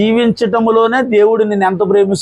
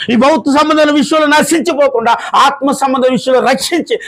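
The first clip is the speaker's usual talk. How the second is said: higher-pitched, emphatic testimony; believer's declaration; 6 semitones higher than usual. Acted. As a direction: proclaim it high as a believer's confession. Models the believer's declaration for congregation.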